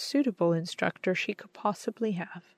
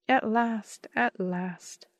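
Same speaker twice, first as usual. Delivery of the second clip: joyful cry; 3 semitones higher, much slower than usual. A narrator's reading. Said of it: "I cried".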